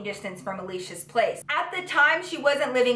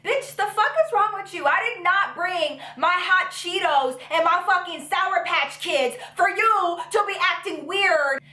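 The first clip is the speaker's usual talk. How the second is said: mock indignant; 6 semitones higher than usual. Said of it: "and I was like".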